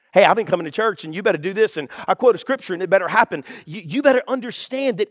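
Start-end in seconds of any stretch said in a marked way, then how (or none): 0.1-3.4 fast, pushy entitled demand; mock a churchgoer demanding results; hurried, bossy entitlement. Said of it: "in an entitled mentality".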